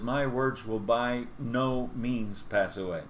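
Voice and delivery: drawn out, weight on "by no means"; slow emphatic quote. Shown as a demonstration. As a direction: let each word land slowly. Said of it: "he says".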